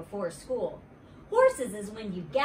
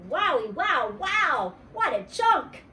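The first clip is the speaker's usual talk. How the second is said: loud, high, awestruck wows; wowed exclamation; 6 semitones higher, 5 dB louder than usual. A narrator's reading. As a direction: gush loudly over someone handsome. Child amazed by handsome boy.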